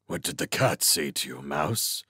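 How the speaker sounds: a touch of menace, lightly rasped. Acted. Owl questions mouse about the cat, mild rasp. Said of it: "he rasped".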